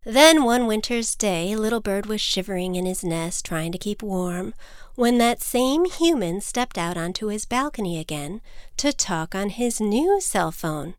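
usual speaking voice

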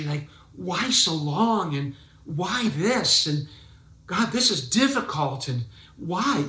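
lightly voiced anguished why; pleading prayer. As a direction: plead with God as a worried believer. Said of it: "we're all asking why".

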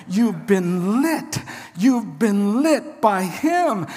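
slow, stressed "lit" and "him"; slow emphasis. Shown as a demonstration. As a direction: drive each word home slowly. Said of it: "Did you hear what I just said?".

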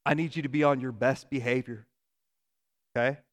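imitated Southern mother, measured and firm; thick Southern accent, lowering into earnest warning; Southern mom accent. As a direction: lecture a child like a Southern mom. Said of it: "has a very thick Southern accent".

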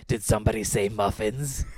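infomercial grandma voice. Retold or imitated. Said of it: "a reference to the Magic Bullet infomercial".

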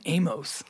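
"Amos" as AY-mohss, O fully sounded; accentuated O. Shown as a demonstration. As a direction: lean on the long O in "Amos". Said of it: "I accentuate the O".

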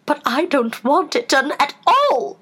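high, theatrical groan of complaint; woeful storybook queen. A narrator's reading. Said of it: "groaned the poor Queen".

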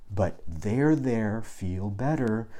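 drawn-out there-there, a bit mocking; mock soothing. Mock parent soothing upset son.

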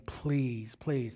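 soft, low retold begging; pleading. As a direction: beg weakly, acting out the plea. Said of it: "crying and pleading, begging".

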